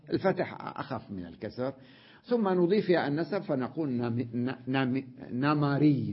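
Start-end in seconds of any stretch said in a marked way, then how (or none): 5.3-6.1 نمري said "na-ma-REE", open a in the middle; fatha on the mim. Shown as a demonstration. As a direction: say نمري with an a after the m. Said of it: "نجعل حركتها التي هي كسرة فتحة".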